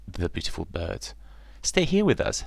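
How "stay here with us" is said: much higher, friendly swan. Acted. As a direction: invite him warmly. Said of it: "said another".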